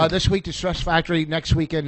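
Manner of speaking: talking while chewing gum. Real, not acted. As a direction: gum in the mouth. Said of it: "I got gum in my mouth".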